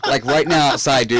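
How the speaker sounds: said again through laughter; laughing repeat. Real, not acted. Repeating the cold night through laughs to a friend.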